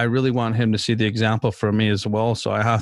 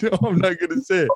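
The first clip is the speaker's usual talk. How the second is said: lightly voiced little kid, higher pitch; imitating toddler; 8 semitones higher than usual. Father imitates toddler son refusing to swear, lightly childlike voice. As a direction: play the small son refusing, a bit higher.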